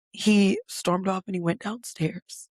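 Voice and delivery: ordinary delivery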